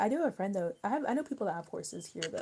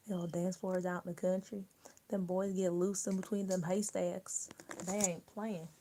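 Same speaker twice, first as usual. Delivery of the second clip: put-on mild country accent. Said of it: "a good, good country accent".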